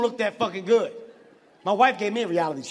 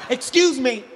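insistent call; 3 semitones higher, 7 dB louder, slower than usual. Acted. Calling the woman to turn round.

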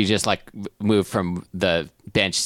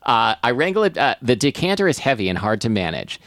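measured first-person narrator reading; narrating a comic tale; story narration. Acted. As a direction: read the story aloud. Reads story aloud.

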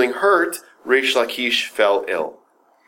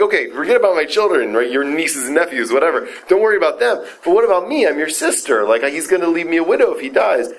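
pleading sister; 7 semitones higher, faster than usual. Acted. Sister begging Rabbi Yochanan to spare her husband, high desperate plea. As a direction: beg your brother, voice rising high.

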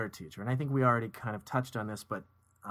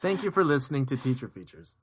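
radio voice; 2 semitones higher, 4 dB louder than usual. Acted. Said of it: "you do your radio voice".

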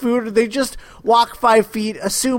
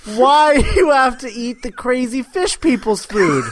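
exasperated question breaking into laughter; incredulous laughing; 3 semitones higher than usual. Real, not acted. Mock rant at the Atlanteans, laughing incredulously. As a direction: ask it helplessly, laughter taking over.

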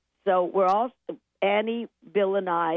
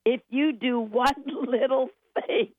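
rising, building praise; 5 semitones higher than usual. Retold or imitated. Film man praising the director at a screening, voice going up and up. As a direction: voice climbing higher, drawn-out proclamation. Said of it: "The voice kept going up".

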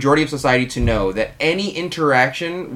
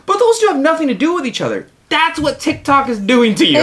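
excited rant; 13 semitones higher, 3 dB louder than usual. Real, not acted. Laughing rant continues.

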